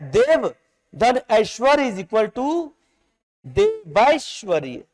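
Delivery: देव धन ऐश्वर्य is equal to देवैश्वर्य, slow and deliberate; walk the class through the sandhi step by step; slow dictation. Shown as a demonstration. Teacher works the sandhi through with students, slowly and deliberately. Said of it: "clear है?".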